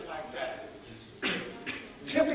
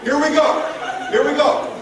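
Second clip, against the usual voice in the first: laughing; 6 semitones higher, 7 dB louder than usual. Real, not acted. Laughing at the audience's reluctance.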